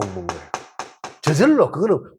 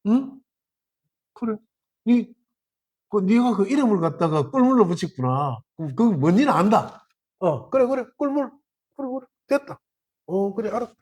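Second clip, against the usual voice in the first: easygoing acceptance; 2 semitones higher than usual. Acted. Third-mountain person lightly accepting the name, mild easygoing tone. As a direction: humour the friend gently. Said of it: "세 번째 산에 어쩌노?".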